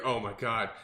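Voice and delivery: lightly mimicked complaining mom; exhausted gym moms. Coach mimics moms leaving group fitness class, mock exhausted griping. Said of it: "like, moms coming out of there".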